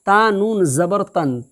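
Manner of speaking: each syllable read out slowly; slow demo reading. Shown as a demonstration. Teacher showing the pupil how to read it, slowly. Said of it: "کیسے اجرا کرو گے؟".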